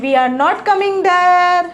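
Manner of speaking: very slow, clear dictation of each English word; teacher modelling English slowly; slow model sentences. Shown as a demonstration. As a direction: spell the sentence out slowly for learners. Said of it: "અમે ત્યાં આવી રહ્યા નથી".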